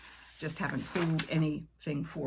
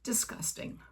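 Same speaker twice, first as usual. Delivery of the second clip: disgusted whisper; 6 semitones higher, 4 dB quieter than usual. Real, not acted. Reaction to swallowing bug.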